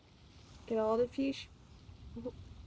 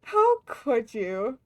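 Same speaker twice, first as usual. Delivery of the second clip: slow, louder, drawn-out mock reproach; 2 semitones lower, 6 dB louder, much slower than usual. Streamer scolding chat in mock hurt over the outfit. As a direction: drag it out, pretending to be wounded.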